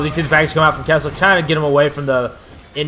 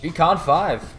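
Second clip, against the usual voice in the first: victory call; 4 semitones higher, slower than usual. Real, not acted. Announcing the game winner.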